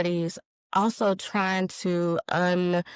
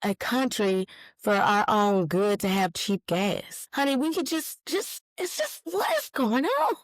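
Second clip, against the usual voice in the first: rising higher and higher in disbelief; incredulous outburst; 6 semitones higher than usual. Retold or imitated. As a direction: plead with the world, climbing to a squeak. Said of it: "I'm like".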